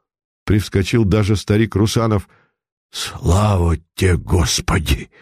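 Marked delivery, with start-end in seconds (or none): 2.9-5.1 mild relieved joy, a touch lower. Acted. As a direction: thank God, relieved. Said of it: "Радость, ликование послышались в голосе". (сдержанная радость облегчения)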